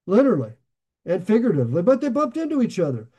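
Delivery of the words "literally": chuckling through the word; a quick laugh as he says it. Real, not acted. Pastor laughing at his own pun.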